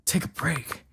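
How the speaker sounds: teasing sing-song echo of the line; mock the partner's advice; mocking repeat. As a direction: mimic it with a smirk.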